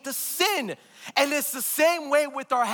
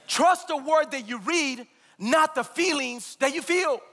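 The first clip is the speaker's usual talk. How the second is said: preaching shout; 4 semitones higher than usual. Real, not acted.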